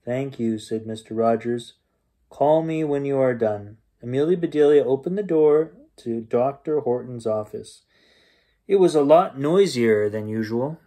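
lively bedtime story reading; story narration. A narrator's reading. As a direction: read it like a bedtime story to kids. Reads bedtime story aloud.

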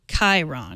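Chiron said KAI-ron; hard-K pronunciation. Real, not acted. Cohost doubting the name, Chiron as KAI-ron. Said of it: "it's not a sh sound".

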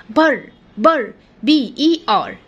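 "كم، كم" drawn out slowly syllable by syllable; slow syllable split. Shown as a demonstration. Teacher breaks "cucumber" into slow syllables for the children. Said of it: "تعالى اقسمها لك".

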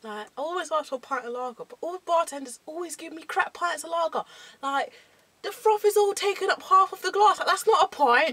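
hammed-up Cockney moan; Cockney accent. Shown as a demonstration. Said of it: "we're doing Cockney".

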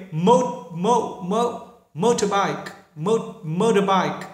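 American "motorbike" with the t flapped toward d; American accent. Shown as a demonstration. Teacher contrasts the American accent for students. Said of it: "Người Mỹ thì nghiêng về âm đ".

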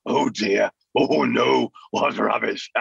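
fussy, scornful puppet grumble; the cat's dismissive voice. Shown as a demonstration. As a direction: sneer at the scores like the old cat. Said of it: "that voice is English".

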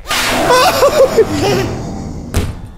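high yelping laugh of fright; scared shriek-laugh. Real, not acted. Gamer yelps at the same hallway scare. Scared by horror game jump.

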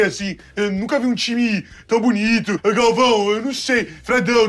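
easygoing ex-footballer drone; Casagrande impression. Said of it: "É o Casão".

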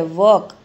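वॉक with a silent L; correct pronunciation. Shown as a demonstration. Teacher models the right word, वॉक without L. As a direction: say वॉक, no L at all. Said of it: "वॉल्क नहीं बोलते".

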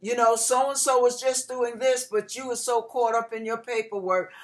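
nagging boss. Retold or imitated. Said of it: "The whole year, it was".

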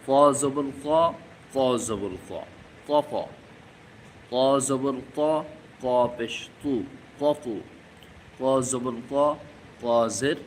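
very slow "ক জবর ক", drawn out and stressed; slow syllable drill. Shown as a demonstration. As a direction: spell it out syllable by syllable for students. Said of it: "আস্তে আস্তে পাল্টাবে".

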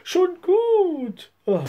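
weary sigh; mildly sighing wife. A narrator's reading. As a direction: give in with a sigh. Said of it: "seufzte sie".

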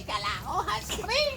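shivering in cold water; words shaking from the cold. Real, not acted. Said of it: "Ang lamig".

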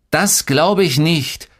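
high, drawn-out little-brother telltale; high-pitched kid snitching; tattling. A narrator's reading. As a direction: tell on your brother, slow and singsong high. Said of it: "petzte Tolga".

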